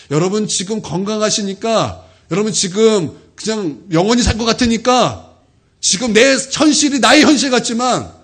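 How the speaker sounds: rising, insistent sermon delivery; preaching. Acted. Pastor warns a healthy congregation, preaching with growing force.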